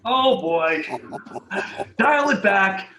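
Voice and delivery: sudden high, loud laughing alarm; a nervous laugh at being caught out; laughing oh boy. Retold or imitated. Recruiter realizing his slip to the executive, laughing nervously.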